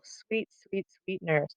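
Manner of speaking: soft, sweet-talking plea; butter her up very softly; coaxing, buttering up. Acted. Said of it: "kind of buttering her up".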